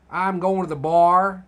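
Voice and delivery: mock American accent with a hard R. Teasing Americans about R's, mock American accent. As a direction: imitate an American accent, leaning on the final R. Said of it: "you guys and your R's".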